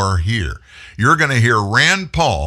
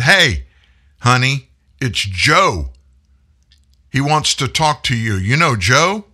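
calling out; 3 semitones higher, 3 dB louder than usual. Retold or imitated. Wife calls from the kitchen.

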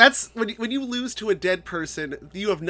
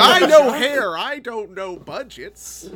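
hapless barber; 6 semitones higher, 6 dB louder, much slower than usual. Pretend. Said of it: "And Bill's like".

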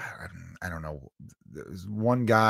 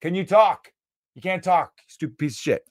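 scolding himself; 5 semitones higher than usual. Real, not acted. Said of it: "The first day of kids".

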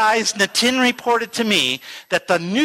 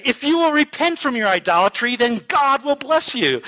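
retold preaching; 6 semitones higher than usual. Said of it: "And then he said".

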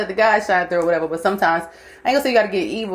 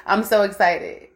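slow mantra; slower than usual. Shown as a demonstration. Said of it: "I do it all the time".

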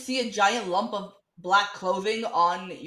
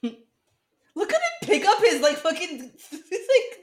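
laughing while she talks, slow; words broken up by real laughter; 7 semitones higher, 5 dB louder than usual. Real, not acted. Laughing at the hero on screen.

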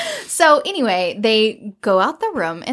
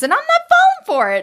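high, fast, indignant retort; indignant protest; 4 dB louder, much faster than usual. Retold or imitated. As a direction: blurt it out high and quick. Man protests in retold scene.

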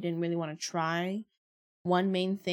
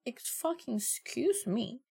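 much higher, indignant retold rant; replaying how she snapped at her boyfriend, high and outraged; retold outrage; 9 semitones higher than usual. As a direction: fire it back at him in disbelief. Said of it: "I'm like".

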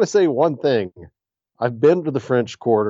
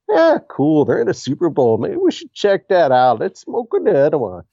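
stoned LA fan; 5 semitones higher than usual. Retold or imitated. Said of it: "as far as the Rams backing is".

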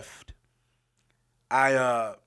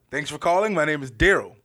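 phone greeting voice; 3 semitones higher, 8 dB louder than usual. Retold or imitated. Call center greeting.

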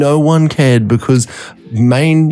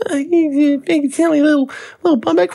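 much higher, sing-song mockery; mocking voice. Partygoers teasing him about his bum bag, high mocking voice. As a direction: tease like a snooty partygoer. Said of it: "people have gone".

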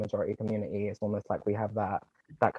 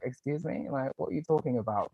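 a touch of disbelief, higher; mock-offended what-are-you-on-about; lightly raised incredulous question; incredulous retort; 4 semitones higher than usual. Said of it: "I was like".

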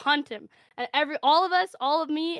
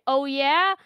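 louder, cocky "Oh, yeah?"; defiant retort; 4 semitones higher, 8 dB louder than usual. Pretend. Player taunts the cops in the graveyard, cocky. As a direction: throw it back as a dare. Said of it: "And I say".

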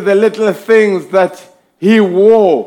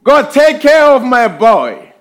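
crying out to God; 4 semitones higher than usual. Retold or imitated. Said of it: "crying out to God".

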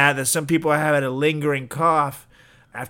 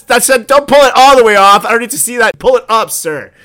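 much higher, louder mock disgust; disgusted nurse; 8 semitones higher, 11 dB louder than usual. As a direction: shriek in exaggerated revulsion. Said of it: "They're like".

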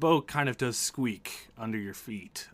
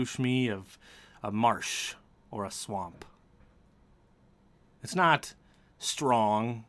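measured suspenseful narration; game master's scene setting. A narrator's reading. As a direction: set a tense scene, pausing between phrases.

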